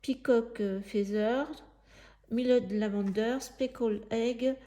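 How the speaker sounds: English colour names read out in a French accent; English paint names said in a French accent. Real, not acted. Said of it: "je vous donne les noms avec mon accent".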